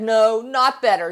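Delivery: a mild mock whimper from a hurt child; quivering lip. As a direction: pout it out, lip trembling a little. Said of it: "with the quivering lip".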